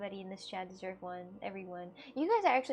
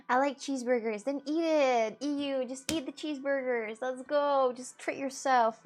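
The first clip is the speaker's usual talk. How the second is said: hyped encouragement; 3 semitones higher, 5 dB louder than usual. Real, not acted. Cheering a chatter on.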